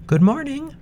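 put-on high little girl calling. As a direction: call out brightly as a young girl. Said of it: "She called out".

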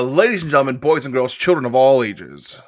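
big ring announcer call, slowed on the last line; ringmaster. Pretend. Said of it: "That's wrestling".

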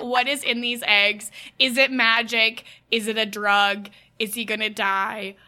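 loud mock alarm; alarmed yell. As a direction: shout in mock panic about the eggs. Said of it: "I was like".

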